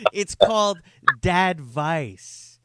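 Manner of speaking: giggling through the title; laughing. Real, not acted. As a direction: laugh out the words. Repeats title while laughing.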